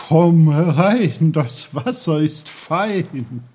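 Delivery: laut und langsam gerufen; einladendes Meer. A narrator's reading. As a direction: das Meer lockt mit großer Stimme. Das Meer lädt Peter ein. (das Meer ruft Peter laut und langsam ins Wasser)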